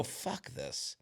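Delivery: fed-up guy leaving the booth; whispered curse. Retold or imitated. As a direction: breathe it out in disgust. Muttered exit from the bar.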